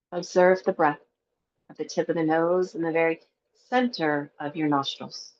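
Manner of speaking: calm, even meditation guide with long pauses; guided meditation. Acted. Teacher guiding a breathwork class before Yoga Nidra, guided meditation. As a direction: lead them gently into the breath, leaving space between phrases.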